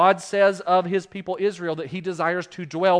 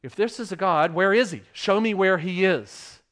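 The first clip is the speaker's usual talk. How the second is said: mock atheist challenge; 4 semitones higher, 5 dB louder than usual. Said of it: "I think of them saying".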